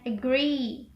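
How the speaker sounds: "agree" with a long final E. Shown as a demonstration. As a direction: draw out the last vowel of "agree". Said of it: "for the long E is".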